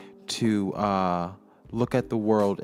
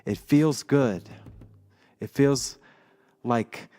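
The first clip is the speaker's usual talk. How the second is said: slow, dreamy reading of his notes; poetic reading. Acted. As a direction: read it like a spoken-word poem. Reads his poetic notes aloud.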